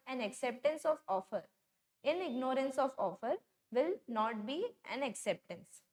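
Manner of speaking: very slow, word by word, like reading a law to copy down; slow dictation. Shown as a demonstration. Teacher dictating the contract rule to students, very slow and deliberate. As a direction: spell out each word of the rule. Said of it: "इसीलिए क्या बोला".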